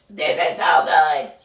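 talking through a big bite; savoring with a full mouth. Real, not acted. Mouth full, overwhelmed by taste.

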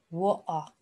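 "water" with the t dropped and no final r; alternative pronunciation. Shown as a demonstration. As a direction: say "water" as WAW-ah. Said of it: "You can say water".

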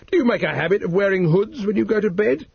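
a hint of a stern officer questioning; policeman. A narrator's reading.

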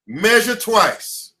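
drawn-out and deliberate; slow repeated motto. Acted. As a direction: drag the motto out.

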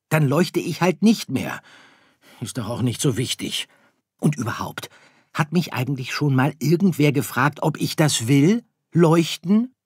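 hoher, lauter Kinderstern, bockig; trotziger kleiner Stern. Acted. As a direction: ein trotziges Sternkind spielen, lauter und höher. (trotziges Sternkind, höher und lauter)

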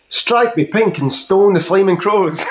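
lightly voiced cranky old Aussie, slow; a hint of an outback uncle; slow Aussie old bloke. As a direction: drawl it like a coastal grump. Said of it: "I can just see him coming in".

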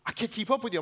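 put-on high little girl voice, out of breath; tired daughter. Daughter calling to her running dad, high and pleading. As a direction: play his daughter falling behind. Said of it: "my daughter's like".

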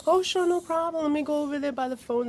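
imitated customer-service pitch; helpful store lady. Voices the store lady being obliging.

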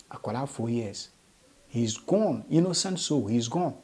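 hushed, sorrowful lament; quietly mournful. Real, not acted. Presenter mourning a four-year-old child, quietly sorrowful. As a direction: let it sink in softly, with pauses.

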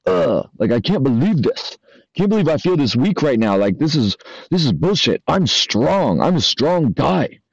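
mock complaint about feeling weak; a lightly acted frustrated lifter griping to himself; whiny gym guy. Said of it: "are you gonna sit there and be like".

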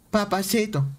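put-on Colombian accent. Streamer coaxing Vanessa to say papacito, mock Colombian accent. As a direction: imitate how Colombian women say "Papacito". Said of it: "las colombianas, ¿cómo lo dicen?".

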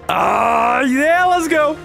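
high, rising excited yell; hyped cheer. Real, not acted. Viewer cheering the trailer's action sequence, hyped cheer. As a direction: cheer it on, pitch climbing.

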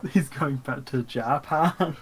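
slow echo with "Japan" stretched out; weird pronunciation. Retold or imitated. Co-host echoing Yuji's confusion, weird pronunciation of "Japan". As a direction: say "Japan" as an oddly unfamiliar word. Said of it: "they would pronounce it weird".

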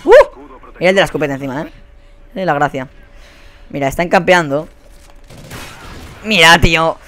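ordinary delivery

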